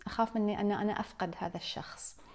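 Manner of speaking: hushed unvoiced voicing of the dread of loss; whispered fear. Speaker voicing what people say about losing a loved one, whispered.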